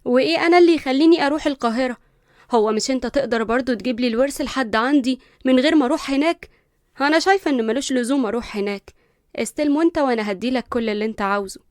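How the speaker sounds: refuse, outraged and entitled; spoiled protest. Acted. Linda refusing to travel to Cairo, loud and indignant.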